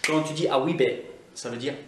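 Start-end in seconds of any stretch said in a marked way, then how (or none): 0.5-1.0 Scottish "a wee bit"; Scottish accent. Shown as a demonstration. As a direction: say it like a Scot. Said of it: "typiquement écossaises". (accent écossais)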